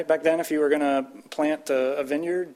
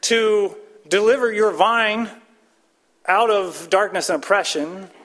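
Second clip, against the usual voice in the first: impassioned psalmist plea; 4 semitones higher, 4 dB louder than usual. Acted. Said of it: "He's saying".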